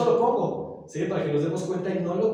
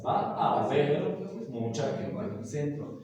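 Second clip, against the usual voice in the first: slow demo. Shown as a demonstration. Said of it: "dense cuenta que en realidad son tres palabras".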